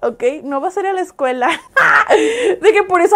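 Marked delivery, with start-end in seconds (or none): 1.8-3.2 laughing. Real, not acted. Laughing at own joke.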